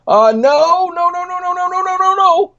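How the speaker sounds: high, frantic repeated no from the nurse. Retold or imitated. Nurse warning a colleague away from the room, high and frantic. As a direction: wave them off like a panicked nurse.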